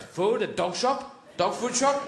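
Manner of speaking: slow, simple-minded dog asking hopefully; eager dog. Acted. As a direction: spell it out like a hungry dog. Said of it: "The dog goes".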